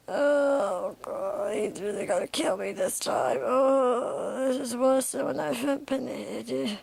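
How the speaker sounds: mildly acted groans of agony; groaning in pain. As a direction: groan like you're badly beaten. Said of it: "bleeding all over the place".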